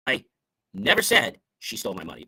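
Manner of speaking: never punched, the rest falling away; stress on never. Shown as a demonstration. Speaker showing how emphasis shifts meaning, stress on never. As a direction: lean hard on the word never. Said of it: "when we change the emphasis".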